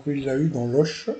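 joking hint of a Portuguese accent, "Oche" with a final sh. Commentator joking about the Portugal answer, light mock Portuguese accent. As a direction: put on a light Portuguese sh in "l'Oche". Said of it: "dit-il avec l'accent portugais".

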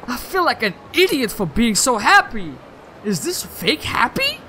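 disbelief turning to hurt; lightly voiced hurt girlfriend.

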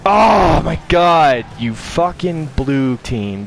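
slow, loud, exasperated; drawn-out exasperated groan. Real, not acted. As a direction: drag it out in disbelief. Frustrated at opponents scoring.

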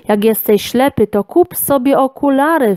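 mildly angry, pitch climbing; mock gnome yell. A narrator's reading. Gnome rebukes the one who missed him, mild rising yell. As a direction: snap back like a cross little gnome. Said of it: "wrzasnął krasnoludek".

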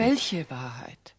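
a slow, fearful whisper; frightened whisper. Acted. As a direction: barely breathe it out. Frightened, hushed question.

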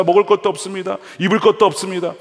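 high, loud, pleading cry to God; Jacob's pleading prayer. Acted. Jacob pleads with God, having nothing: loud pleading prayer. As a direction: beg God with nothing left, voice straining high.

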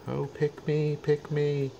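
high, pleading "pick me" as the puppy; high, hopeful puppy plea; begging dog voice. Pretend. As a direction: voice the dogs begging to be chosen. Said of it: "Anybody wanna make any last sort of".

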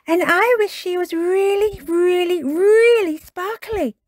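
put-on high child voice, stretching out the last words; Peppa, excited. A narrator's reading. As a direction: gush with growing delight, pitched well up. Peppa adds an excited wish.

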